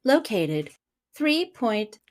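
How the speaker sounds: flat voice assistant; robot voice. Acted. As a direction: read it like a GPS. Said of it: "I really like your robot voice".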